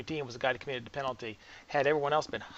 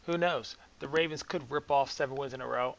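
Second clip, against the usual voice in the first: mock hopeful. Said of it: "I can't say that with a straight face".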